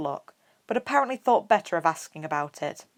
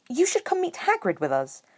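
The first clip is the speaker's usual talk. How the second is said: bright, excited; 9 semitones higher than usual. A narrator's reading. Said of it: "she said in a bright, excited voice".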